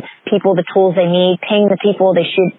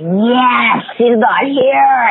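higher, slow, gleeful relief; relieved glee; 4 semitones higher, much slower than usual. Retold or imitated. Instructor to herself about the absent student, slow gleeful relief. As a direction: savour that she's gone. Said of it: "I was like".

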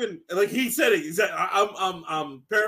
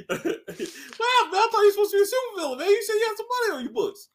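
high, laughing mock disbelief; imitated baffled buddy; incredulous questioning; 10 semitones higher, faster than usual. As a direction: pester him in a high voice. Boys questioning villain, acted out.

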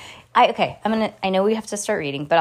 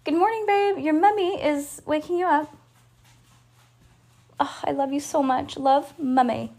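put-on higher sing-song British mum accent; mock British mum; 8 semitones higher than usual. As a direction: coo like a British mummy. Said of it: "I'll be like".

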